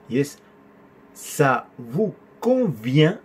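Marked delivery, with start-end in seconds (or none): 1.1-3.2 "convient" with a clear V, not B. Shown as a demonstration. Teacher showing students the spelling, "convient" said with V. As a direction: say "convient" slowly with teeth-on-lip V. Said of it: "avec V ... No con B".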